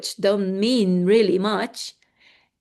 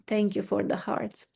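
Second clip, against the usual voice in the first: soft breathy aside; hushed side remark; whispered thanks; 6 dB quieter than usual. Real, not acted. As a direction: whisper a quick thank you to viewers. Quick aside to viewers.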